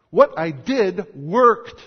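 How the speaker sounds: loud, slow, each word pressed home; Asa insisting. Acted. Preacher voicing King Asa to his congregation, loud and slow. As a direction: hammer it out as the wronged king.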